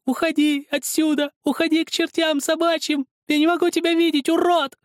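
high, loud tearful scream; a crying child refusing to listen; screaming through tears. A narrator's reading. Zakhar screams through tears at Helmut, high and loud. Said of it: "кричал сквозь слёзы".

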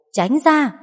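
tiếng hét cảnh báo, cao vọt lên; hét gấp để người kia tránh ngay; hét lớn. A narrator's reading. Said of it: "Thịnh hét lớn". (hét lớn cảnh báo)

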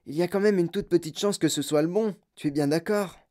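put-on an old grandfather plotting with his grandson; old grandpa Joe. (voix de vieux grand-père complice)

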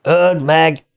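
high-pitched urgent cry; urgent shouted command, moderately loud; shouting. A narrator's reading. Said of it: "kiáltotta Bill".

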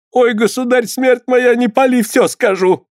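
high, desperate begging; pleading cry. Acted. Healer begging the boyar not to burn her. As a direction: beg for the fire to stop. Healer begs as fire raised.

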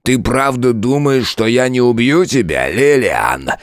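громче, медленно, с нарастающей яростью; заорать на неё; крик. A narrator's reading. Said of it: "заорал он". (король в ярости кричит)

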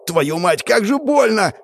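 high, pained cursing rising; agonized cry. Acted. Hero deafened on his knees, high agonized cursing. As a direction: curse through splitting pain.

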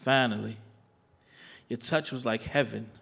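slow, sensual spoken word; poem recitation. Acted.

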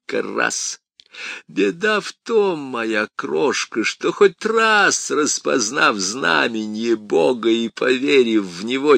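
mock him like a gleeful devil; taunting demon. Demon lectures priest.

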